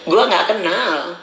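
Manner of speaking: slow, said through a laugh. Real, not acted. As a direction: chuckle while saying it slowly. (sambil tertawa, pelan)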